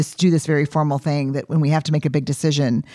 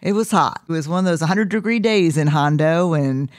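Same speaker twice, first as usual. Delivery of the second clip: Texas storyteller cadence; 3 semitones higher than usual. Retold or imitated. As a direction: spin it like a Texas bullshitter uncle. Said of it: "fifth generation Texas bullshitter cadence".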